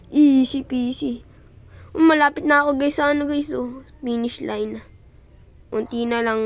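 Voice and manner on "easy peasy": "Easy peasy" stretched out slowly, each word held; slow drawn-out easy peasy. Shown as a demonstration. Gamer bragging about an easy stage, slow and drawn out. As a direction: drawl easy peasy like it is nothing.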